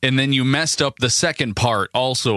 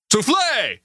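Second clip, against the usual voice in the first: dramatic French flourish; 10 semitones higher than usual. Acted.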